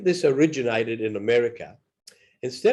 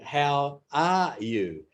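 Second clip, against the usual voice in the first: slow and clear; much slower than usual. Shown as a demonstration. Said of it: "no different than asking".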